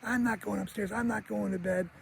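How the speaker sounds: put-on high, quiet defiant kid voice; Kevin. Kevin refuses mom's order upstairs, high mock defiance. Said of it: "He goes".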